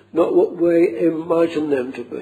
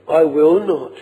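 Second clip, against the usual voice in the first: each word of "I will not" weighted; emphatic repeat. Shown as a demonstration. Preacher repeating the promise to the congregation, stressing "I will not". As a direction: press "I will not" home as a firm promise. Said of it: "see the emphasis on that".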